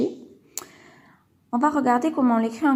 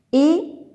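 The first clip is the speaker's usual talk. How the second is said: Épinard lancé plus haut et plus fort, en montant; word said out to listen; 6 semitones higher, 6 dB louder than usual. Shown as a demonstration. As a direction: dire Épinard fort et bien détaché pour l'écouter. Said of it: "Je dis le mot et j'écoute". (prononcer Épinard fort, en montant)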